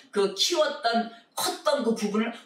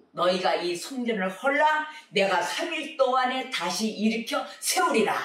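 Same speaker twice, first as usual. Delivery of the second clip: voice of Jesus; 3 semitones higher than usual. Retold or imitated. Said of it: "주님이 뭐라 그랬어요".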